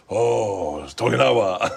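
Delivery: put-on Asian accent, drawn-out opening; hammed-up imitation of an Asian accent; mock Asian accent. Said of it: "it in an Asian accent".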